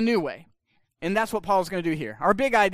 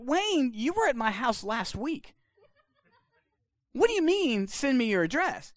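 amused confusion, slowed down; baffled laugh; 4 semitones higher than usual. Retold or imitated. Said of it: "I'm like".

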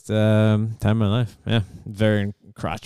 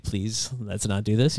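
pleading; slower than usual. Retold or imitated. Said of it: "trying to talk him out of it".

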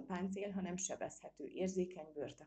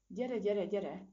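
loud, higher, repeated urging; urgent pleading; 4 semitones higher, 6 dB louder, much slower than usual. A narrator's reading. Frightened monkey clings to squirrel as crocodile nears, urgent pleading. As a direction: plead urgently to get moving.

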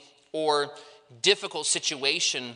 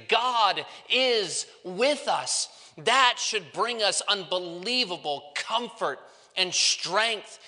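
emphatic preaching; 4 semitones higher than usual. Real, not acted. Preacher assuring the congregation that God is with us, emphatic preaching. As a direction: preach it with deliberate, stretched emphasis.

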